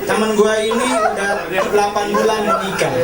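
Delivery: normal talking voice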